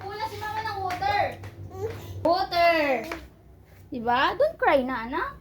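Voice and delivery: high, placating mother's voice. Real, not acted. Mother asking her crying child to wait, placating.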